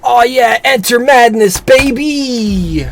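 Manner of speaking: loud, high hype yell; excited shout. Real, not acted. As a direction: yell it out, pumped up. Hyped at the new area.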